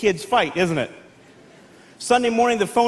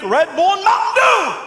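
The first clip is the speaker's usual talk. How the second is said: hyped shout; 7 semitones higher, 4 dB louder than usual. Acted. Hyped boys' favorite drink.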